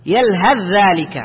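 slow "يلهث ذلك", ث absorbed into a doubled ذ; ث merged into ذ. Shown as a demonstration. Teacher models the rule, ث becomes ذ. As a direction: run يلهث into ذلك on one held voiced ذ. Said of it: "وإنما تقول".

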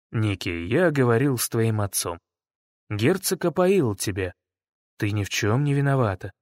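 low, gentle reassurance; soft voice. Acted. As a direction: comfort her softly. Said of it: "Мягкий голос".

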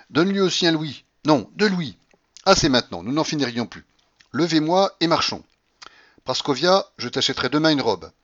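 high, loud, brisk commands; imperious old grandmother. Acted. Grandmother orders alms and promises gifts, imperious. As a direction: boss them loudly, impatient.

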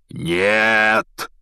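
loud booming no; Hagrid thunders. A narrator's reading. Hagrid protesting to Dumbledore, booming no. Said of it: "загремел Хагрид".

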